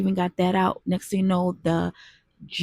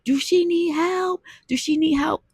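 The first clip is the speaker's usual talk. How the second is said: boaters asking; 10 semitones higher, 4 dB louder than usual. Retold or imitated. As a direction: voice the concerned strangers on the boat. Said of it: "all I heard them say".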